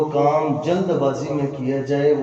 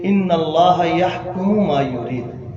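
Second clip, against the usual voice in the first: slow, measured Arabic recitation; Quran recitation; slower than usual. Acted. Preacher quoting a Quran verse to listeners, slow recitation. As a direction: recite the verse with drawn-out syllables.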